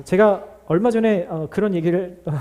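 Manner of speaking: usual speaking voice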